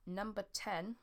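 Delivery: slow halting words from a dry mouth. Real, not acted. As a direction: speak through a parched dry mouth. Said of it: "I got a really dry mouth".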